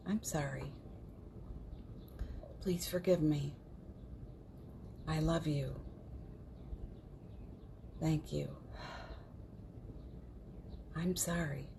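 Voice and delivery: quiet, unhurried recitation; guided mantra. Real, not acted. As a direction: lead them gently through a healing mantra, pausing after each phrase. Leads a Ho'oponopono recitation.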